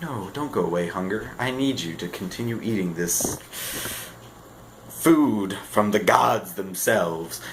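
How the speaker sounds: soft, hammed-up plea to hunger; mock pleading. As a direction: beg softly, as if losing something precious.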